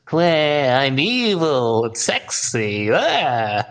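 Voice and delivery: slow, sultry New Zealand accent impression; drawled New Zealand accent. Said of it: "incredibly accurate New Zealand accent".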